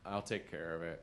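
low, soft, resigned offer; imitating a let-down girlfriend, quietly; disappointed. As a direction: say it with a touch of disappointment. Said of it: "that much disappointment in her voice".

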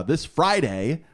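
drawn-out promo announcer delivery; promo read. Real, not acted. Host plugging the film's release date, slow promo read. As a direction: stretch it out like a release-date plug. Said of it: "This sounds like a promo".

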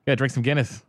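Boston bar-buddy talk; Boston accent. Shown as a demonstration. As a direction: urge a pal in Boston accent. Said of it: "that's the Boston accent".

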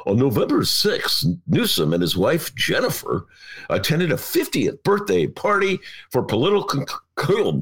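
announcer read, a touch formal; radio voice. Shown as a demonstration. Host reading a CNN account in his radio voice. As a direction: read it like a news anchor on air. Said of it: "I will read it in my radio voice".

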